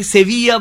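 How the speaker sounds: সেভিয়া with the double l as a y sound; Spain's সেভিয়া, y glide; Spanish way. Shown as a demonstration. Guest gives the Spanish pronunciation of the city: সেভিয়া. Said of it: "বলে স্পেনের লোকেরা".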